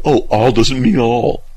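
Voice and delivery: slow, drawn-out mock protest; mock objection. Objectors push back on the all issue, mock objection. Retorts of challenged believers acted out.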